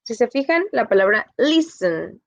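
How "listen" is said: listen with LIS lifted; stress on first syllable. Shown as a demonstration. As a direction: put the weight on the opening of listen. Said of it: "como que es más alto".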